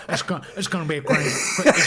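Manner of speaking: poor attempt at the politician's boasting cadence; lightly attempted, half-laughing impression; badly faked presidential hype; Donald Trump. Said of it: "almost gave me a bit of Trump".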